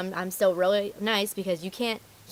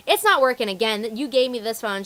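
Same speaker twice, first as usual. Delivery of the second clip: louder, mock-angry complaint; rude customer; 2 semitones higher, 6 dB louder than usual. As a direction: imitate an indignant customer.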